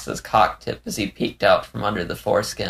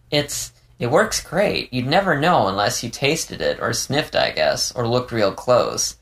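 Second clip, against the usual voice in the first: higher character voice, halting at first; Leo, hesitant and candid; 4 semitones higher than usual. Acted. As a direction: explain it haltingly in a higher fox voice.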